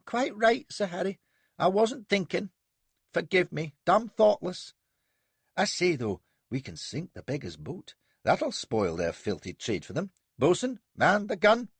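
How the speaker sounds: high, quick, cheering himself up; concede, then brighten; young captain apologising to Sir Harry; chastened young captain. A narrator's reading.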